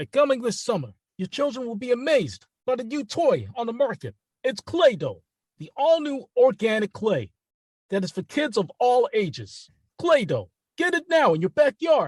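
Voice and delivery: put-on high, loud, swooping New York accent, announcer delivery. Reading commercial copy another person wrote for you: New York accent. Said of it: "I want to hear that good New York accent".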